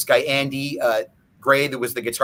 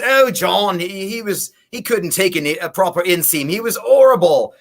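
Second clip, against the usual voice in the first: lightly voiced, higher-pitched lady; lady's voice; 5 semitones higher, 3 dB louder than usual. Lady dishing about John to a stranger, retold in a higher voice. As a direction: imitate her exclaiming, rising loud on the last word. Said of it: "some lady says to me".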